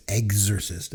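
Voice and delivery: slow "Exorcist" with a hard "eggs" start; mock Canadian pronunciation. Ribbing himself while recapping last week's pick, mock Canadian pronunciation. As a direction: say "Exorcist" as "eggs-ercist", drawn out. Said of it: "if you're Canadian".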